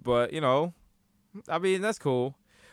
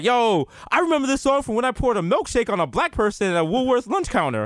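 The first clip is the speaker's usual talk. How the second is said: higher-pitched mock reminiscing; nostalgic listener; 6 semitones higher than usual. Old radio listener recalls their youth, mock nostalgia. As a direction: lightly act out a fond old listener. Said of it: "everyone listening to it was like".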